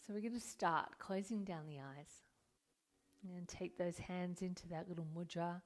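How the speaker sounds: calm, unhurried meditation guidance with long pauses; guided meditation. Acted. Yoga teacher settling students into their seats, guided meditation. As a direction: ease them into stillness, leaving room to breathe.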